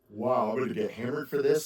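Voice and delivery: talking through a yawn. Real, not acted. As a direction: yawn mid-sentence. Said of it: "Somebody's gonna comment about my yawning".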